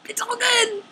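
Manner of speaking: soft unvoiced resigned irony; whispered sarcasm. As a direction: breathe it out fake-fine.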